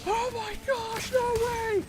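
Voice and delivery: very high squeal, stretched out; imitated wigging out. Two friends beside him in lecture react to shiny Eevee, wigging out. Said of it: "were literally wigging out beside me".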